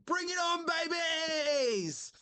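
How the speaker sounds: very high chipmunk voice, shouted playfully; a tiny chipmunk daring the whole chat; hammed-up squeaky battle cry. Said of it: "this chipmunk stuff".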